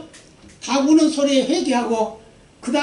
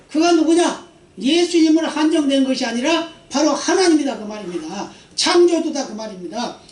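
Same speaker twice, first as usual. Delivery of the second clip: fervent preaching; 2 semitones higher than usual. Acted. Climactic preaching.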